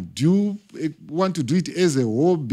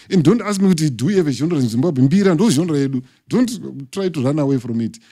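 emphatic insistence; 3 semitones higher, 4 dB louder than usual. Real, not acted. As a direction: declare it forcefully with a louder voice. Insisting Mbira is the genre.

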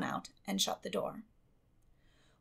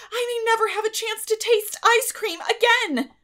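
much higher and louder, near crying; desperate pleading; 14 dB louder than usual. A narrator's reading. Girl begs guardian to let her go, desperate. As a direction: beg frantically, voice breaking.

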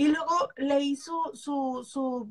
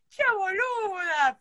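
slow, higher Argentine "Che boluda"; Argentine accent; 6 semitones higher, slower than usual. Retold or imitated. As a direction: drop into a drawn-out Argentine accent. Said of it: "I'm from Argentina".

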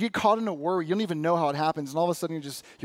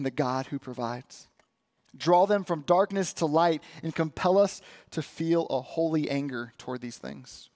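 prayer. Real, not acted. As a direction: lead the church in a sincere prayer.

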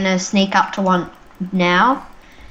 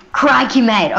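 put-on Australian accent; 4 dB louder than usual. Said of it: "this is the North Australian".

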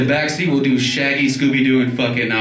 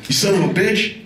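Stone Cold growl; 6 semitones higher than usual. Retold or imitated. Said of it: "Stone Cold Steve Austin".

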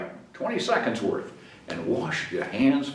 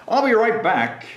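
Carl promising; 8 semitones higher, 4 dB louder than usual. Acted. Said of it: "he told the field mouse".

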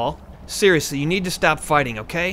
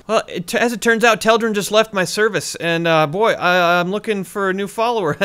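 higher, hesitant fake nonchalance; awkwardly acting cool, voice pitched up; trying to play it cool; 5 semitones higher, 3 dB louder than usual. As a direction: fumble through a casual hint, overeager. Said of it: "Just trying to play it cool here".

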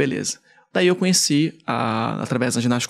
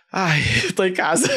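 higher, slow sigh of relief with a laugh; 5 semitones higher than usual. Retold or imitated. Storyteller relaxes on hearing Jesus Cristo, laughing relief. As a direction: let go, amused and relieved.

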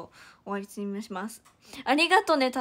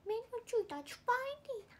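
high, quick, cartoonish put-on voice; tentative high-pitched voice impression; attempted voice mimicry; 11 semitones higher, faster than usual. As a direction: squeak it out fast in a cute character voice. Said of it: "ちょっと声真似はむずいから".

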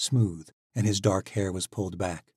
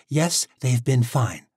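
grudging; 5 semitones higher, 6 dB louder, slower than usual. Acted. Tori answers grudgingly.

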